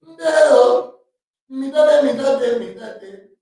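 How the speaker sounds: high, loud mock African accent, fading down; hammed-up African accent. Goofing around on the podcast in a mock African accent. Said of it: "my African voice".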